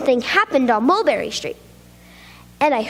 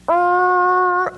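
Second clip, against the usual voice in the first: sheepish hesitant "er"; a caught-out boy's pause; squirming "er"; 4 semitones higher, 4 dB louder than usual. Acted. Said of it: "answered with sort of a squirm".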